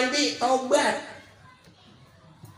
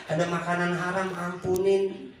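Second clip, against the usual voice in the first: humble confession; 4 semitones lower, 5 dB quieter than usual. Retold or imitated. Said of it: "kita ngaku nih".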